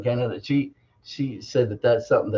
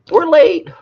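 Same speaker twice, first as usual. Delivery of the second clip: sing-song, much higher; 13 semitones higher, 9 dB louder than usual. Real, not acted. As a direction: pitch it way up playfully. Repeats with big pitch jump.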